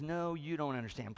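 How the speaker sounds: calm, unruffled reply in an everyday pitch; no big deal. Acted. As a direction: correct the panicker patiently, without raising the voice. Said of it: "like no big deal".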